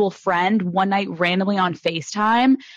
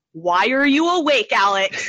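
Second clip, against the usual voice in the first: retold boyfriend; slower than usual. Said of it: "boyfriend woke up at four A M last night being like".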